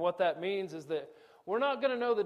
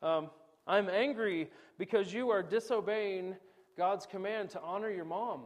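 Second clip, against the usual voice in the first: a father's rational scolding, a bit raised at first; calm rebuke; 3 semitones higher than usual. Retold or imitated. Father to kids disrespecting mom, calm firm scolding. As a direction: reason firmly with the kids. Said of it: "I can say".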